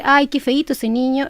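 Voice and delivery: plain flat delivery, no warmth; disapproving tone. Shown as a demonstration. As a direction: say it as a put-down. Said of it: "cambia totalmente el sentido".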